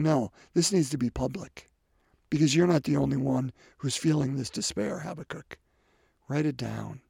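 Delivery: gentle reassurance. Acted. God's gentle answer to Habakkuk.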